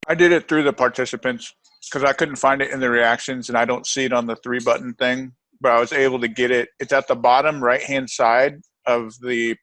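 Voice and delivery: talking with mouth full; chewing while talking. Real, not acted. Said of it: "sorry for talking with my mouth full".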